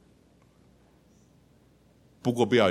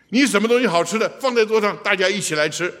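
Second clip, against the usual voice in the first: eager invitation; 8 semitones higher, 4 dB louder than usual. Acted. Preacher voicing African sharing custom.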